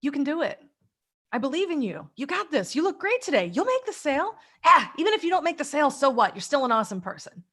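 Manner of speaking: high, encouraging parent voice; nurturing parent. Retold or imitated. Nurturing parent encouraging a salesperson, warmly upbeat. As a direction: cheer them on like a loving parent. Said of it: "just what it sounds like".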